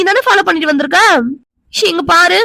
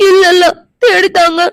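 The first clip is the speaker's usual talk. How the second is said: crying; 3 dB louder than usual. Acted. Crying, pleading for help.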